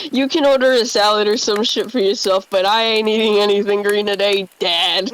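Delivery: a teasing lean on "Dad" at the end; joking stress on Dad. Acted. Jesse teasing Walt at the diner, joking stress on "Dad". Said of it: "emphasizes the last word in a joking manner".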